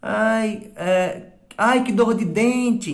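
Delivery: high, slow, moaning exclamation; mock pain. Shown as a demonstration. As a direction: act out a toothache. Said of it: "quando eu tô sentindo dor". (dor encenada, aguda e arrastada)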